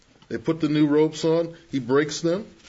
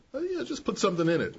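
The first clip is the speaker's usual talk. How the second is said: excusing youth; 8 semitones higher, 3 dB quieter, much faster than usual. Retold or imitated. Young person voiced making excuses.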